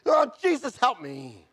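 high, loud wail dropping away at the end; retold scream that starts high and sinks; re-enacted screaming. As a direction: cry out for rescue, then let it fall.

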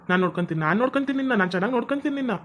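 soft, insistent comforting; soothing promise. Acted. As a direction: quietly reassure someone who is crying. Husband promises to care for wife. (ಮೆಲ್ಲಗೆ ಧೈರ್ಯ ತುಂಬುವ ಧ್ವನಿ)

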